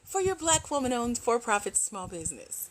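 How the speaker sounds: a light radio ad read; a hint of a voiceover actress reading an ad. Shown as a demonstration. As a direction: sell it like a radio spot. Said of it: "back to radio voice".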